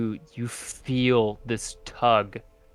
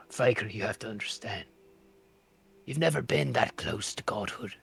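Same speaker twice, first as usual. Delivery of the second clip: acted sobbing; 2 semitones higher than usual. Nex pleads with Vagrant about godhood, acted sobbing. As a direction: plead through sobs, rising at the end. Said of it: "He begins to utterly sob".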